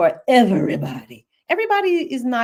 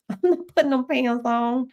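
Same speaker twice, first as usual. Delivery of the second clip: laughing refusal; 4 semitones higher than usual. Real, not acted.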